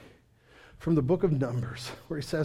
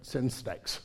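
usual speaking voice

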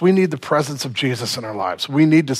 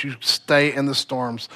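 ordinary talk

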